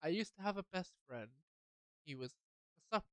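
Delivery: broken into short, separate steps. Acted. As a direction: pause between phrases so the listener can follow. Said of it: "Okay, I'll say it slower".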